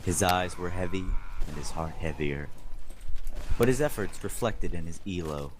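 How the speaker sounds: hammed-up fanfic narration; dramatic reading. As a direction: read it like a melodramatic novel. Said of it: "Dramatic reading".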